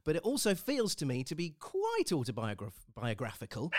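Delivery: teeth slipping, words tangled; stumbling over a long word; loose dentures. Real, not acted. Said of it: "if I can put my teeth back in".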